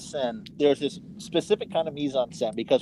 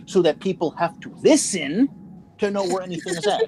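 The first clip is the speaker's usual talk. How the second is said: heated, insistent complaint, pitched up; angry; 3 semitones higher than usual. Real, not acted. Gamer telling friends why the music must go, angry. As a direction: hammer the point home in real irritation. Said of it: "You sound so angry".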